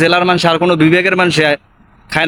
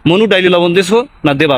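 slow Barishal catchphrase; slower than usual. Shown as a demonstration. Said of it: "ভালো লাগে বিশেষ করে।".

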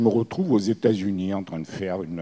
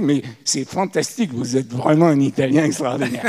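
mock-impressed, higher and louder gush; admiring amazement; 5 semitones higher, 7 dB louder than usual. Retelling what foreign listeners tell him, in admiring amazement. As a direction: imitate amazed listeners gushing praise.

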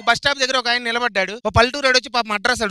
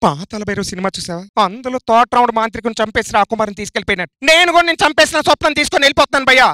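Mahesh Babu; 4 dB louder than usual. Acted. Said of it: "Mahesh Babu గారు".

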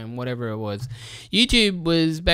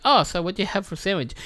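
mock interviewer; 5 semitones higher, faster than usual. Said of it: "one guy would be like".

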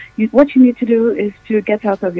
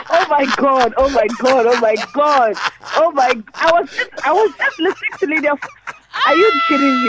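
real disbelief; 6 semitones higher than usual. Real, not acted. Host realizing prank, laughing disbelief.

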